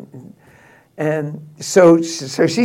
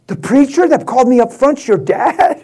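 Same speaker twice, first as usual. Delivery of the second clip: higher, laughing disbelief; shocked question; 5 semitones higher than usual. Retold or imitated. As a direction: ask it as if it can't be true. Girlfriend shocked learning his dad.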